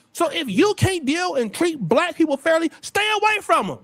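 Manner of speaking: ordinary talk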